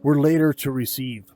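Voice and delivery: measured, clearly projected Bible reading; scripture reading. Acted. Preacher reads the Gospel to the congregation, scripture reading. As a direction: read the passage aloud with light emphasis on the dialogue.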